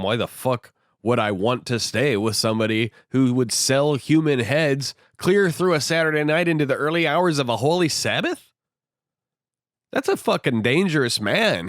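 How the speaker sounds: indignant, pitch rising in disbelief; admonishing. Retold or imitated. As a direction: scold with mild mock outrage. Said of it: "he admonishes Coffin".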